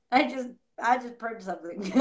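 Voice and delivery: laughing through the words; amused retelling. Retold or imitated. Letting go of the why, said through a chuckle. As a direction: chuckle as you confess it. Amused at own quoted purge.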